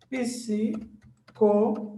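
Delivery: PSI, CO, LO, GI, A with long gaps; separated into syllables. Shown as a demonstration. Teacher showing how psicologia is divided, syllable by syllable. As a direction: split psicologia slowly, syllable by syllable. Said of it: "como é que ela fica separada?".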